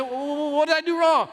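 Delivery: stammered, high-pitched plea; hammed-up begging, tripping over the first word. Husband pleading with silent wife at rest area, mock begging. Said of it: "Hands up, that's begging".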